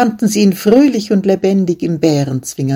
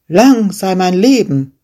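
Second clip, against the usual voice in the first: defiant shepherd; 3 semitones higher, 4 dB louder than usual. Acted. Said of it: "rief der Schäfer".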